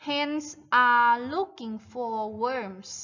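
very slow, stretched-out sentence; model reading for repetition. Shown as a demonstration. Teacher reads the farm text for children to repeat, slow model reading. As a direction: read it out slowly, word by word. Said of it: "One more time".

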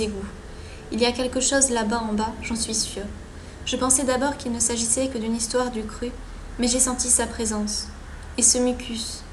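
measured, articulated narration of a diary; storytelling read-aloud voice; journal read aloud. Acted. Reads game journal aloud.

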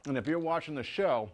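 talking through a mouthful; words round a bite of food; mouth full. Real, not acted. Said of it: "can't talk with my mouth full".

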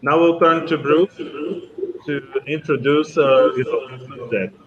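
echoing room sound. Real, not acted. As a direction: voice bouncing in an echoey hall. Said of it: "que tá fazendo muito eco". (com eco)

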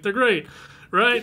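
high, imitated reassurance; cheering someone up. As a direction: act a dad overselling it to his upset child. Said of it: "Hart tries to, like, cheer him".

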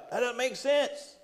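high-pitched, drawn-out incredulity; mock disbelief. Acts out disbelief at strange command.

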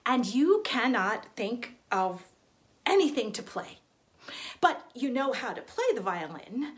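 ordinary delivery

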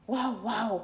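mild woof; lightly barked reply; dog bark. Acted. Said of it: "contesta él". (ladrido suave)

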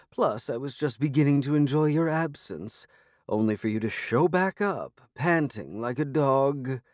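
lightly voiced languid feline diva; a hint of a sarcastic cat; haughty cat voice.

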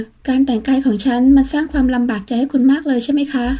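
a touch of sarcastic irritation; mildly needling, barely hiding annoyance; irritated sarcasm. Acted. Annoyed woman throws his dress remark back, lightly sarcastic. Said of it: "เจือน้ำเสียงหงุดหงิดประชดประชัน".

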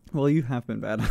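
creaky fry through laughter; vocal fry. Acted. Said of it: "like, vocal fry".

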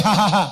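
mock ha-ha-ha; imitated laugh. Questioner asking about the laughter heard behind the man, imitated laugh. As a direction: act out someone laughing behind a person. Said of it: "a wɔresere".

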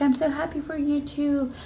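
high mock-weepy gushing; tearfully happy. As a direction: imitate a friend returning the joy through tears. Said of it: "she's crying and I'm crying".

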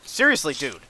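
high, loud shooing; exasperated shout. Real, not acted. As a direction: yell at a pest to clear off. Shooing an enemy away.

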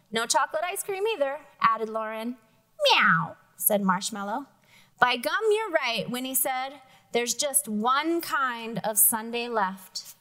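lively storybook reading with character voices; reading to children. Acted. Teacher reading a picture book to the class, lively. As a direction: read it aloud to the class, bright and lively.

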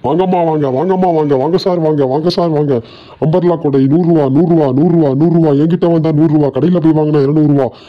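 high, chanting sales call; singsong street hawker. Acted. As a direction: sing out the prices to shoppers. Hawker calling out prices.

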